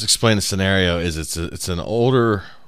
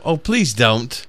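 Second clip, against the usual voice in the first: chill British lady; 3 semitones higher, slower than usual. Retold or imitated. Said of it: "you hear her go".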